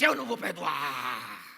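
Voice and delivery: slow, heavy man's voice, refusing; a dark voice that won't yield; possessed man's voice. Retold or imitated. Sister refusing to forgive, in a slow, heavy man's voice. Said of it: "ela começou a falar igual um homem".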